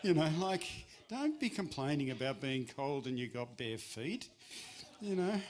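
hammed-up Italian father scolding; Italian father teasing about bare feet; Italian accent. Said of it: "in an Italian accent".

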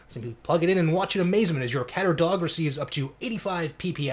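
over-the-top TV ad hype; infomercial pitch. Pretend. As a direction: sell it like a cheesy infomercial. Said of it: "quick shout out to our, uh, our sponsor".

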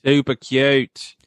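slow, drawn-out cutesy voice; cutesy catchphrase. Pretend. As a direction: coo it out slowly. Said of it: "Alvin's trademark phrase".

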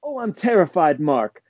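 high, hammed-up damsel gasping at a zombie; lightly voiced movie damsel in fake fright; mock terrified girlfriend. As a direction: play the scared girl badly on purpose. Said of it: "she goes".

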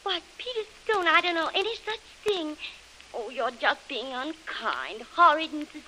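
hammed-up wounded belle act; outraged Southern belle. To Peter after his accusation, outraged Southern belle act. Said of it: "Drop that outraged Southern belle gag".

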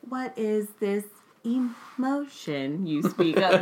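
slow, stiff robotic question. Acted. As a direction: emotionless android tone. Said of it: "my robot voice".

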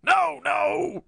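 high, loud shriek of protest; panicked scream. A narrator's reading. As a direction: scream like a cornered old professor. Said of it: "screamed the professor".

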